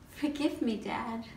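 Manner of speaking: tender apology. Acted. Daughter apologising to father.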